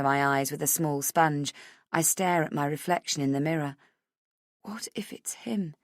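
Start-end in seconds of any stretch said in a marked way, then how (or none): 4.6-5.7 whispered dread; fearful whisper. Acted. Rach fearing the man at the table, whispering. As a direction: breathe the thought out in fear. Narrator's fearful inner thought.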